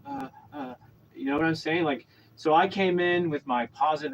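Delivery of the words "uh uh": high, quiet, lost "uh"; mock dazed hesitation; imitating dazed stammer. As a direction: mimic someone dazed, small high noises. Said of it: "She was dazed".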